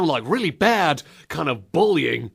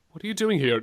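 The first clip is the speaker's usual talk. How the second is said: ordinary talk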